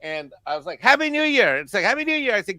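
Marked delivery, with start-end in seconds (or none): 0.8-1.6 high, singing-out holiday greeting; cheery greeting. Retold or imitated. Brother phoning his sister at New Year's, cheery greeting. 1.8-2.3 high, singing-out holiday greeting; cheery greeting. Retold or imitated. Brother phoning his sister at New Year's, cheery greeting.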